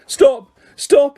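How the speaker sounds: high, loud repeated yell. A narrator's reading. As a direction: shout it, rising in panic. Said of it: "he yelled".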